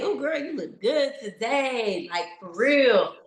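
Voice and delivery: giggling, sassy self-praise; laughing self-praise, playful; laughing self-compliment. Retold or imitated. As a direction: hype yourself up with a laugh. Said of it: "I know also that I say".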